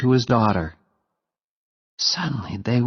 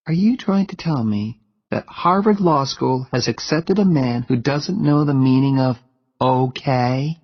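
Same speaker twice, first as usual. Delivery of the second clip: higher young woman's voice, playfully mocking; teasing Jenny; 5 semitones higher than usual. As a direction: tease him, rising at the end. Narrator voicing Jenny teasing.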